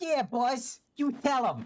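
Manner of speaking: high New York mafioso accent. Explaining why Paimon feels like a henchman, giving her a New York mafioso voice. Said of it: "give her a henchman voice".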